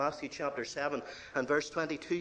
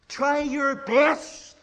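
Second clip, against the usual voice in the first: slow, loud, higher preaching cadence; preaching at full force; 9 semitones higher, 6 dB louder, slower than usual. Real, not acted. Preacher listing what churches tell people, loud preaching. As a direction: hammer each command home. Preacher mocking works gospel.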